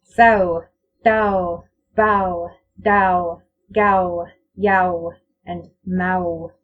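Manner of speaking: each word gliding from a to a w sound; au toward w demo. Shown as a demonstration. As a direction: round the lips into w at the end. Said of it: "it sounds like this".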